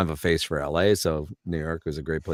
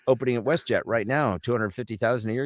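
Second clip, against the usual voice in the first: put-on matter-of-fact Newfoundland accent; businesslike Newfoundland-accented clerk; 4 semitones higher than usual. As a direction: state the offer evenly in a Newfie accent. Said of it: "jump the pond over to Newfoundland".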